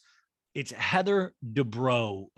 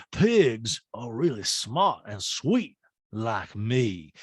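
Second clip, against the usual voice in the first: slow sweet Sutton voice; much slower than usual. Retold or imitated. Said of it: "Sutton's like, I'll say".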